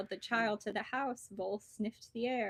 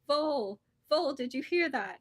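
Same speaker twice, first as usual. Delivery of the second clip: loud frightened shout, pitched up; 5 semitones higher, 7 dB louder than usual. A narrator's reading. Snake startled by rumbling, shouting to Vole. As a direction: call out to Vole in alarm. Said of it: "he shouted".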